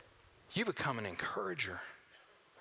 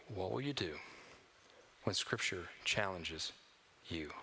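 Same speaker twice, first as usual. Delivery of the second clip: low, quiet question; 10 semitones lower, 5 dB quieter than usual. Real, not acted. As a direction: repeat the question lower and softer, almost inward. Repeated sermon question, dropped low.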